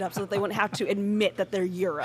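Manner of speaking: a weak, put-on British accent; bad British accent. Mocking the British in a bad British accent. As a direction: fake a poor English accent for a laugh. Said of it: "that's the worst British accent I've ever done".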